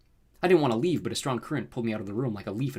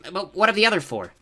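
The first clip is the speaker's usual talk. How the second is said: high, louder creature voice; anxious toad underling; 9 semitones higher, 7 dB louder than usual. A narrator's reading. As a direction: question your master nervously. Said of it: "the toady agreed".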